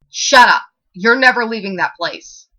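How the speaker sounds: high, loud furious scream. A narrator's reading. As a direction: scream it at the door in rage. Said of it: "he screamed at the door".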